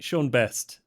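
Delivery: lightly voiced London accent, charming; British accent. Sean greets Candy with a light British accent. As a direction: Sean plays the smooth Londoner. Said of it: "born and bred London".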